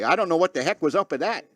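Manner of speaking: lightly hammed-up Canadian accent; mock Canadian accent. Shown as a demonstration. Host showing how the quote must sound, in a mock Canadian accent. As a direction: show the Canadian lilt, playfully put on. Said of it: "it can only come out that way".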